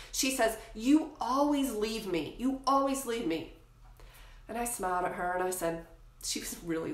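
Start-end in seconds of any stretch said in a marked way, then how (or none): 0.7-3.6 imitating crying daughter. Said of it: "crying, sobbing as I was leaving".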